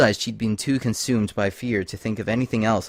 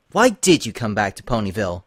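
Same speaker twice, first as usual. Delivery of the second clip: aggressive question; 4 dB louder than usual. Acted. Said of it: "she became aggressive again".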